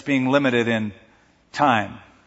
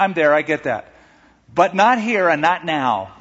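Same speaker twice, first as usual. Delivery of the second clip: a rising, pleading, frustrated Martha, louder; voicing Martha; 5 semitones higher, 4 dB louder than usual. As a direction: press her complaint, higher and louder. Voicing Martha's complaint to Jesus.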